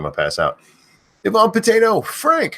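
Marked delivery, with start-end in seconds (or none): 1.2-2.0 high piercing yell; screamed name. Acted. Streamer screaming a viewer's name, shrieking loud. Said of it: "I end up screaming too much". 2.0-2.6 high yelled Frank; screamed name. Acted. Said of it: "Frank again".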